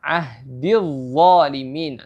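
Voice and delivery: slow Ahdil zalimin with a heavy dha; careful recitation. Shown as a demonstration. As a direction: recite it slowly. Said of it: "Harus dibaca sesuai dengan makhrajnya".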